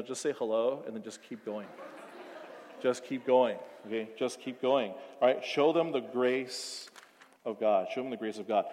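calm them down gently; tender pastoral plea; gentle urging. Real, not acted.

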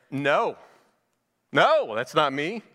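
firm, slowed denial, each no pressed; emphatic denial. Retold or imitated. John answering the priests, emphatic slow denial. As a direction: shut the question down firmly and slowly. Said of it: "just kind of emphatic".

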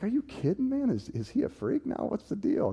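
high, incredulous teasing; mocking disbelief. Jocks mocking their friend for reading the Bible, incredulous. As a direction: ridicule him like he's gone weird.

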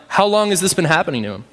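plain, straightforward question, asked briskly; matter-of-fact, like a doctor; clinical, calm. Retold or imitated. Jesus asking the father about his possessed son, clinically calm. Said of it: "clinical and calm, like a doctor".

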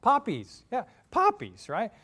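high, loud witch cry; Wicked Witch. Acted. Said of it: "What does she say?".

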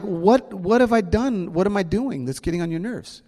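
put-on boy asking his teacher what he did wrong; confused kid. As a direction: plead like a bewildered fifth grader. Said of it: "I'm like".

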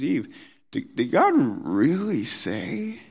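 high, sneering question to Eve; mock God's word as if it's absurd. Satan taunting Eve about God's command, mocking high question. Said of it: "He's mocking it".

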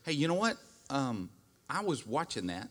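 gentle wife. Retold or imitated. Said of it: "if the wife would just turn and say".

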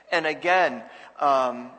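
usual speaking voice

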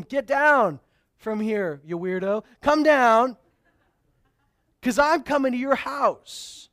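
half-playful shout upward; loud calling up. Retold or imitated. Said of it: "Jesus says to him".

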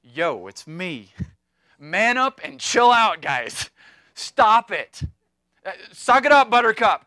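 loud casual bro voice telling the guys to toughen up; brash buddy yelling at scared friends; Jesus as a blunt modern friend, loud and casual; modern slang Jesus. Retold or imitated. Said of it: "so in modern English, it would be something like".

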